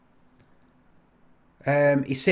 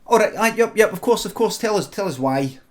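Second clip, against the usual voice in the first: higher, louder, repetitive placating; hurried mock agreement; 7 semitones higher, 4 dB louder than usual. Recruiter letting the recruit explain why, in raised placating voice. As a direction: give in eagerly, pitched up.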